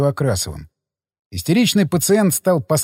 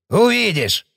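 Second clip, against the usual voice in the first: exclaiming; 5 semitones higher, slower than usual. A narrator's reading. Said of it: "воскликнул Кривокрасов".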